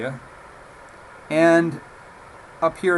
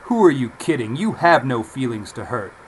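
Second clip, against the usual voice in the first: Cary Grant imitation; 6 dB louder than usual. Shown as a demonstration. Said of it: "learn to speak like Cary Grant".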